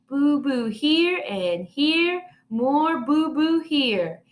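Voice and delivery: put-on slow, high toddler showing hurts; little child voice. A narrator's reading. Fudge showing his brother his scrapes, small child voice. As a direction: point out every boo-boo.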